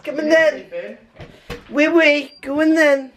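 high, coaxing pet talk; a hint of silly pet voice; dog voice. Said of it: "I have a dog voice".

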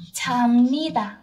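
very slow voiceless whisper. Shown as a demonstration. Teacher slowly whispering the answer to students.

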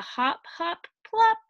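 high bouncy hop plop; sing-song splash word; playful plop. A narrator's reading. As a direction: pop the word up like a jump. Playful ending sound words.

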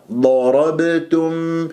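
drawn-out ضربتم with a heavy, full ض; articulated Dad. Shown as a demonstration. Quran teacher models the letter Dad, slow careful recitation. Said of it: "فإذا ض".

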